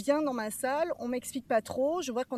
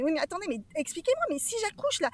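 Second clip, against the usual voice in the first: retold panic; 7 semitones higher than usual. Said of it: "je panique, je panique".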